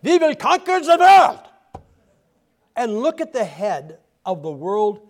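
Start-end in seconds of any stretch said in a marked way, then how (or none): 0.0-1.4 loud, high German movie-villain boast; a Hollywood Nazi villain in a German accent, declaring conquest. Acted. Hollywood super villain announcing world domination, hammed-up German accent. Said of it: "give him a German accent".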